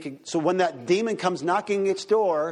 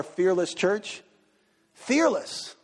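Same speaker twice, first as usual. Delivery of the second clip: higher-pitched, emphatic rallying cry; real excitement; 4 semitones higher, much slower than usual. Real, not acted. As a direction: let excitement lift the key word high. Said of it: "I get excited about that".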